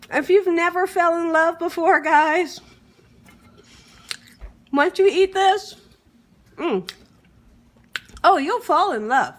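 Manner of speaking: loud, raving with delight. Real, not acted. Cook raving to viewers about fry bread.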